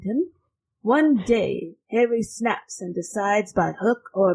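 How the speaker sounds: a hint of a grand anthology host; Rod Serling voice. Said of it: "let me dial up that knob a little more so it's obvious".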